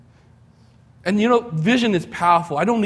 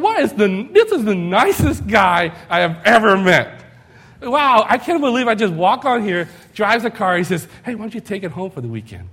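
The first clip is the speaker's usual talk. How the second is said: higher and louder, thrilled; amazed delight; 4 semitones higher, 5 dB louder than usual. Retold or imitated. Young buyer marveling at the generous car manager, excited. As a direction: gush over the nicest guy ever.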